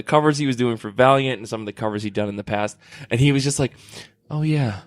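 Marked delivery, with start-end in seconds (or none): 4.3-4.8 soft-spoken artist. Retold or imitated. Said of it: "most soft-spoken person in the world".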